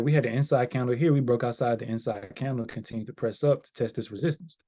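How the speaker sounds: rushed run-through of the steps; very fast. Real, not acted. Trader explains the re-entry setup, very fast. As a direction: rattle through it quickly. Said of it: "I said that very fast".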